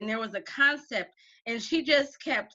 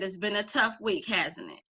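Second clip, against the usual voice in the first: gentle sympathy; 3 semitones lower, 4 dB quieter than usual. Retold or imitated. Comforting student, holding her hand.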